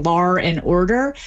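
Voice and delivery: "lar and order" with an R sound linking law to and; linking R demo. Shown as a demonstration. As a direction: say "lar and order" with a clear R before and. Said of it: "is where you get".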